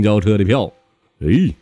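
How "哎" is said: high-pitched, emphatic disciple voice; Sha Seng. Acted. Junior disciple corrects his second brother, high and emphatic. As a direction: jump in with a raised, contradicting voice. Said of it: "这时候沙僧就掏出来".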